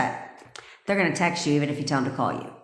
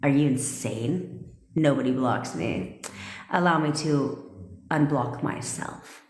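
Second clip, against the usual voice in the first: haughty attitude; 4 semitones lower than usual. Shown as a demonstration. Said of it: "Be like".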